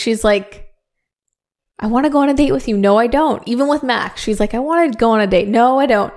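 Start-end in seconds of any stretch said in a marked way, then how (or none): 1.8-6.1 lightly acted back-and-forth indecision; sing-song mock wavering, pitch lifting on reversals; mock non-committal flip-flopping. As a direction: imitate someone changing her mind each phrase. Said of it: "she's very weird in relationships, like, so non-committal".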